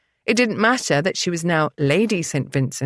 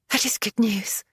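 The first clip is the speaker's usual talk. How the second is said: exclaimed; 3 semitones higher, 3 dB quieter than usual. A narrator's reading. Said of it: "she exclaimed".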